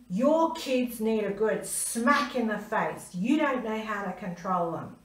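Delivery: lightly voiced rude man lecturing a mother; harsh stranger. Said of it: "And he said to me".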